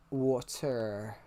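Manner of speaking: water with a drawn-out er on the end; "water" ending in a long, audible er. Shown as a demonstration. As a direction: say water slowly, leaning on the final R. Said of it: "You hear a bit of an er on the end of it".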